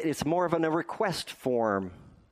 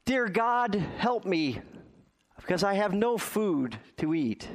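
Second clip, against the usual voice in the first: put-on high, pleading old woman's prayer; imitating a desperate old woman praying; 6 semitones higher than usual. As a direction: beg God for help in a lifted voice. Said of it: "and she says".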